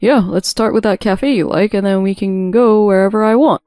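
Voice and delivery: upbeat husband chatting to his mistress; lightly acted happy anticipation; cheerful. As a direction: plan the outing with easy cheer. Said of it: "Mike's cheerful voice talking to his mistress".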